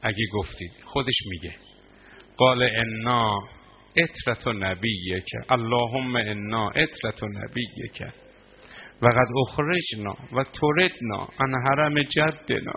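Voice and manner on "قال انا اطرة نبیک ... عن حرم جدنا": slow, drawn-out lament chant; mourning recitation. Acted. Preacher chanting Imam Husayn's words to mourners, slow lament. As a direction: stretch every word as a lament.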